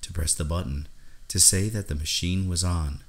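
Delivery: ordinary delivery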